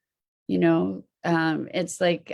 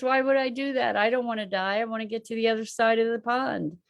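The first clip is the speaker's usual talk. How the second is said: scorpion; 3 semitones higher, faster than usual. Acted. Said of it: "the scorpion says".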